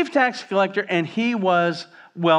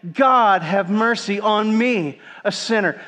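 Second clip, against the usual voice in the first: louder and higher, slow and emphatic; louder, building; 4 semitones higher, 4 dB louder, slower than usual. Shown as a demonstration. Preacher urging the congregation to repeat the prayer louder. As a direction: push the congregation to say it with more force. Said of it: "Say it again".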